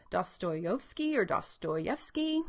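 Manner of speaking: "Dostoevsky or Dostoyevsky" slowly, as two variant sayings; trying out pronunciations. Shown as a demonstration. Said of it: "We play around with the sounds".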